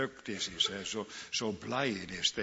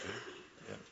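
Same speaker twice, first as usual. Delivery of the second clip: ordinary delivery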